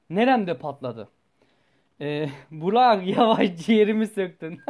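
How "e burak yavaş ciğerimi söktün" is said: louder, slower words through real laughter; laughing. Real, not acted. Cracking up at Burak's joke while telling the story, laughing.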